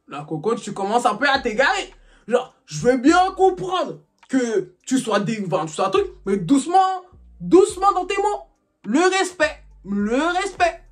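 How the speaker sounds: put-on slow, patronizing warning to her boyfriend; mock warning. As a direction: drag out each word like scolding a child. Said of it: "Je suis en train de dire, oh". (mise en garde lente et condescendante)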